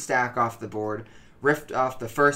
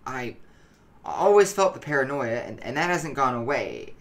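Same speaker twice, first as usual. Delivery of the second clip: anxious, halting, stumbling over words; tense and jittery, like he can't sit still; nervous paranoid voice. Acted. Paranoid addict gives his account.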